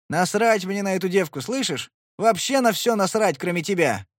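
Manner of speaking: loud desperate confession; Sly declaring to Twin, desperate; passionate outburst. Acted. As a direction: blurt it out fiercely.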